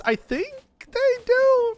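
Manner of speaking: very high, slow cracking squeak. Real, not acted. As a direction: voice breaks up into a squeak. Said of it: "my voice".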